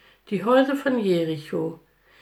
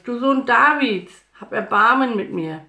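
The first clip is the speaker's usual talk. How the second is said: loud, raised cry for mercy; high and loud, begging; pleading shout; 5 semitones higher, 7 dB louder than usual. A narrator's reading. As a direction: shout the plea over a noisy crowd. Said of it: "schrie Bartimäus".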